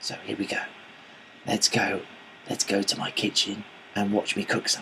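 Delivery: quiet hushed voice. Starting a cooking video while Kat works in the background, talking quietly. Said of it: "I'm talking quietly".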